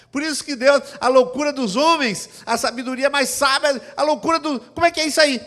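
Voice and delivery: high, loud, driving sermon voice; fervent preaching. Acted. Pastor preaching to the congregation with full force.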